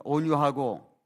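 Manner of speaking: slow, measured phrases for others to repeat; deliberate recitation to be echoed back; lead-in for repetition. Shown as a demonstration. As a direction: lead the congregation through it slowly, pausing between phrases. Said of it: "한번 따라해 보겠습니다".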